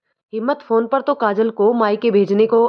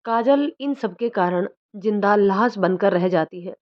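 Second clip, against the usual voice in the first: usual speaking voice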